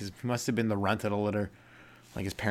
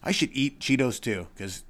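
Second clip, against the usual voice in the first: put-on higher excited kid voice; kid admiring Cheetos mascot; 4 semitones higher than usual. A kid admiring the Cheetos cat, higher. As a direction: gush like a kid. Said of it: "You're like".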